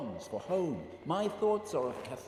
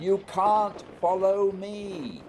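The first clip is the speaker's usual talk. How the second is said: louder, firm dismissal; insistent raised voice; 3 semitones higher, 6 dB louder than usual. Acted. Scott insisting Barry cannot follow, loud and firm. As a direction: shout him down over the wind.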